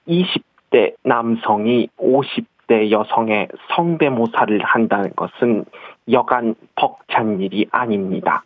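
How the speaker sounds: slow deliberate speech of a female head of state; Park Geun-hye impression. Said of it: "박근혜 저 대통령님 한번 시작해 보겠습니다".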